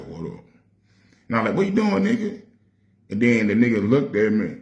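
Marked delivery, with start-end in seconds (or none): 0.1-0.4 low, soft, cold What up; a dismissive What up to an old friend; funny attitude. Retold or imitated. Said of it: "Had a funny attitude, like". 1.6-2.4 put-on big hype hello to an old homie; excited greeting. Greeting little brother again.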